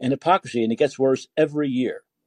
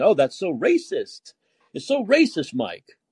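mock indignation; 2 semitones higher, slower than usual. Mimicking critics crying racism.

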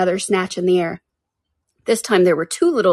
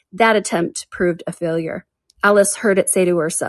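ordinary delivery

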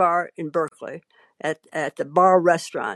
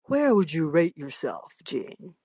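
slightly lowered pitch, sinking soft on the name; deep voice; 3 semitones lower, 3 dB quieter than usual. Retold or imitated. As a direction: lightly imitate a man's deep voice. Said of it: "he says in a deep voice".

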